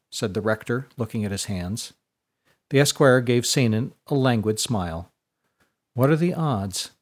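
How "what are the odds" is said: flat, dry deadpan question. Acted. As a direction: ask it flatly, unimpressed. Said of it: "said Seinan in a flat tone".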